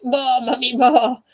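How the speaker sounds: lightly voiced eager child; a hint of a small son begging his mum; Nathan. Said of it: "read that to Nathan now".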